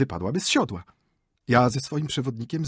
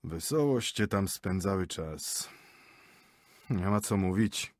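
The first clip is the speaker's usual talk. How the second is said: 1 disgusted mutter. Acted. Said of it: "mruknął, uśmiechając się z odrazą".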